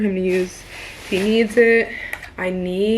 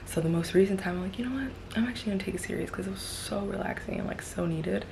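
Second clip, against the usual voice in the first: whispering; 6 dB quieter, faster than usual. Real, not acted. Hushed while partner in shower.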